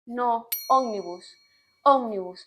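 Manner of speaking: correcting her. Retold or imitated. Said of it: "y me corregían".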